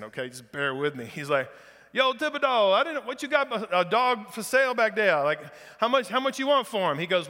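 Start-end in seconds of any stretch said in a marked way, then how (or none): 1.9-7.0 put-on Southern Louisiana accent. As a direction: play an excited Cajun in a Southern Louisiana accent, pitched up. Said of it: "I'm gonna try this Southern Louisiana accent".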